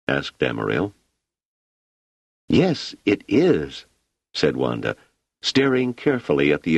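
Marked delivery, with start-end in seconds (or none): 2.5-3.9 put-on high, slow, wondering child voice; a girl spellbound by the lights; awed little girl. A narrator's reading.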